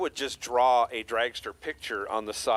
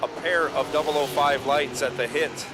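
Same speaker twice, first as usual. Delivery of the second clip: race announcer; 3 dB louder than usual. Acted. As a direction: call the result like a track announcer. Live drag race calling.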